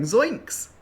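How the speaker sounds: high, loud cartoon yelp; cartoon exclamation. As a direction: blurt it as a cartoon catchphrase. Imitating a cartoon catchphrase.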